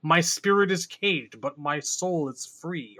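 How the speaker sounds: slow, lightly serene mock-guru line; slow it right down like a meditating sage, softening at the end; hint of a spiritual monk, played for a joke; mock Zen meditator. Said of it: "doing Zen meditation, and he's all like".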